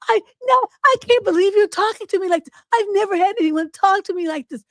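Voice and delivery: high whining voice; whiny little kid. Retold or imitated. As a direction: whine like a hurt little kid. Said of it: "like he was whining and stuff like a little kid".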